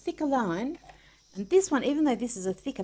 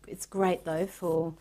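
ordinary talk, nothing marked

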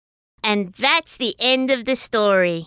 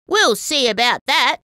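a smiling, playful dare; smiling challenge; 3 semitones higher than usual. Acted. Narrator answers Snapper's boast with a smile, smiling playful challenge. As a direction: tease them with a grin, lightly. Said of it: "I said with a smile".

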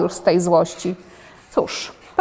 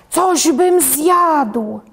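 slow, drawn-out higher lion voice, playfully hammed; lion's roar; 6 semitones higher, 3 dB louder, much slower than usual. Drawn lion growls at the doodle that he is hungry, slow and hammed. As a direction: stretch each word like a hungry lion. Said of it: "bo lew ryknął".

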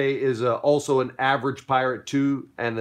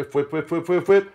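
whip sound effects; 6 semitones higher, 4 dB louder than usual. Acted. Spinning back fist fight sounds.

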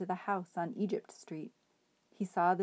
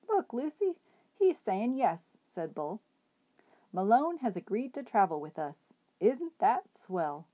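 delighted; 3 semitones higher, 4 dB louder than usual. Acted. Bull delighted at the nod.

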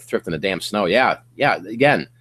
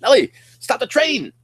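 high, loud, overwhelmed whoa-Nelly outburst; mock startled cry; 13 semitones higher, 7 dB louder than usual. First-timer shocked by sales, overwhelmed whoa. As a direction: yell it like the sales just flooded in. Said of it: "you'll be like".

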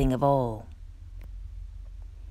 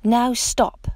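a louder, much higher halt; king's order; 6 semitones higher, 4 dB louder than usual. A narrator's reading. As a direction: bring the party to a sudden end. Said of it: "Max said".

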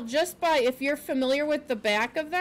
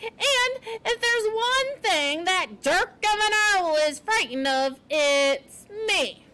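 high, slow, gleeful boasting; sputtering with laughter; 8 semitones higher, 4 dB louder, slower than usual. A narrator's reading. Porcupine mocking the owl to Poppy, amused. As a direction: push the words out high, amused. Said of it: "said between fits of sputtering laughter".

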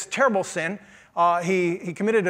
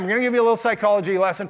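quick repeat; much faster than usual. Shown as a demonstration. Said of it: "Boy, some of you are excited about this".

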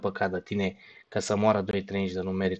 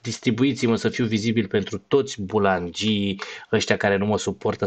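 ordinary talk

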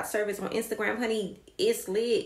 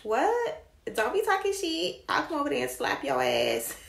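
mock outrage; 3 semitones higher than usual. Mock threat to viewers.

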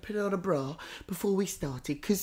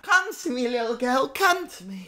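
spooky medium call; 4 semitones higher, 3 dB louder than usual. Acted. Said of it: "I'm saying".

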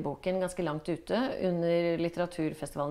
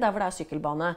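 normal talking voice

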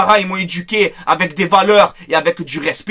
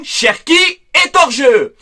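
indignant shout; 5 semitones higher, slower than usual. Real, not acted. Indignant listing of refereeing errors.

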